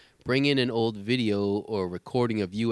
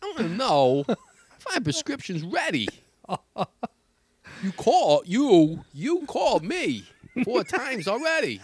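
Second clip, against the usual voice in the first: voice box voice; 10 semitones higher, 4 dB louder, slower than usual. Retold or imitated. Pharmacist voicing a voice-box customer.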